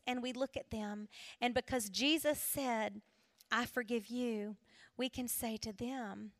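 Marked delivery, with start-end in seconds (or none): 3.5-4.6 soft forgiveness. Retold or imitated. Quoting Jesus softly.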